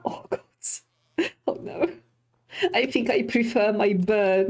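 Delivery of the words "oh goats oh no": breathy whisper of the word; whispered dread. Real, not acted. Player spotting feared goats, whispering. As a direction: hush it like they might hear.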